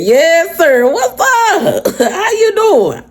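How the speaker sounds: high, laughing mock greeting; teasing coworker. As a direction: greet her with knowing laughter. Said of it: "he said".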